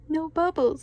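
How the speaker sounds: high, loud excited cry. A narrator's reading. SpongeBob thrilled his sneeze made no bubbles, excited high cry. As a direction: burst out with glee at no bubbles. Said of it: "said SpongeBob excitedly".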